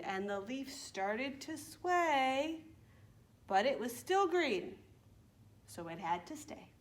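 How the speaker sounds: slow, lilting rhyme for little ones; children's rhyme recital. Acted. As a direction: recite slowly with stretched key words.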